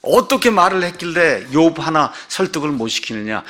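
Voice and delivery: imitating an exasperated scolding, pushed at the start; mock indignant reproach, easing off toward the end; mild retold anger. Preacher voicing Bildad angry at his own friends, mildly indignant. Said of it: "화를 내는 거예요".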